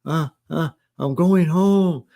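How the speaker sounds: high, drawn-out mock wail; tearful gasps into a high wailed announcement; retold choked-up crying. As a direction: imitate sobbing out the news, slowly. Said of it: "And I couldn't even talk".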